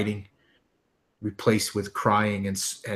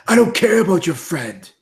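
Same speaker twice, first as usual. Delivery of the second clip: higher, louder bitter snap; angry retort; 8 semitones higher, 8 dB louder than usual. Acted. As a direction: shut her down coldly. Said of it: "Martin says".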